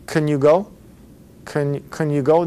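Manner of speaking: "Can" reduced to "kun" in a rising question; unstressed "Can", question rising on "go"; softened can. Shown as a demonstration. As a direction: ask with a weak vowel in "Can". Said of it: "is softer".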